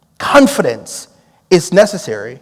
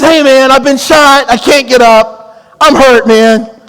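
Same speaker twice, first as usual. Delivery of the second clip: hurt suspect; 8 semitones higher, 6 dB louder, slower than usual. Retold or imitated. Shot suspect on the phone.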